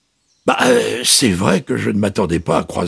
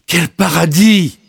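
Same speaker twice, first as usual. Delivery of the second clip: higher, slow, drawn-out delight; delighted wonder; 5 semitones higher, 4 dB louder than usual. A narrator's reading. Child thinking of the vacant lot, delighted.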